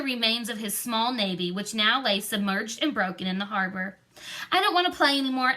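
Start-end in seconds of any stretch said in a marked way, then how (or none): 4.5-5.5 sudden. A narrator's reading. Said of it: "she said suddenly".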